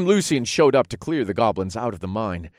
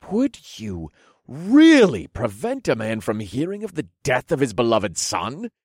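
faked offense; 3 semitones higher than usual. Pleading with the guards to see the Duke, faking offense. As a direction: put on a wounded, affronted tone. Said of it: "I faked an offended voice".

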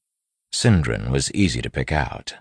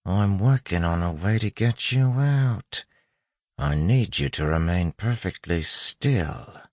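put-on higher-pitched street-tough accent, controlled; 6 semitones higher than usual. A narrator's reading. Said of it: "softly in a street-tough accent".

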